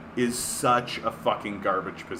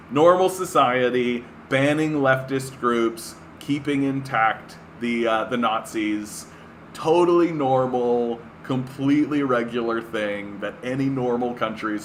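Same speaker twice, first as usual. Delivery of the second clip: sarcastic. Real, not acted. Sarcastic praise of banning groups.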